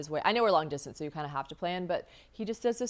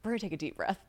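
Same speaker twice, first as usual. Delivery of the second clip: calming friend; 2 semitones higher, 5 dB quieter, faster than usual. Retold or imitated. Quoting friend calming her down.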